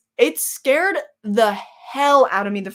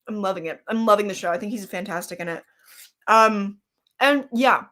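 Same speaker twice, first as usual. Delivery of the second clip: talking through a mouthful of chips; chewing while talking; mouth full; 3 semitones lower than usual. Real, not acted. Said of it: "I know I'm talking with my mouth full".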